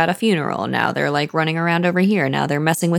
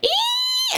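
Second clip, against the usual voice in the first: very high, drawn-out "eee"; goblin squeal. Acted. Host imitating the little goblins of Moria, high squeal. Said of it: "little goblins that live in Moria".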